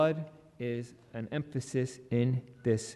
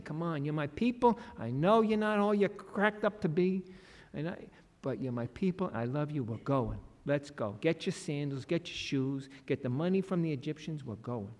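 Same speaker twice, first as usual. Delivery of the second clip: softer, lightly voiced loving God; gracious God; 3 dB quieter than usual. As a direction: gently reassure your people and get them moving.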